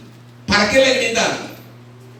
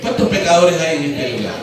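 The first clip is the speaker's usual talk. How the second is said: louder repeat; 5 semitones lower than usual. Real, not acted. Preacher repeats the question louder after only six respond. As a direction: ask again, stronger, to draw more answers. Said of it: "Mire, solo seis, a ver".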